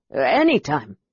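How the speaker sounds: quick relieved blurt; relieved babble. Acted. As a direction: blurt it out, glad he's leaving. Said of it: "babbling with relief".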